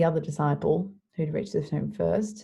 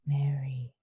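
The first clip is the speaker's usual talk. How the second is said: gentle; 3 semitones lower than usual. Retold or imitated. Jesus says her name to Mary, gentle. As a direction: say her name low and tenderly.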